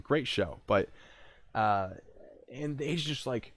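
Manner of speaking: ordinary talk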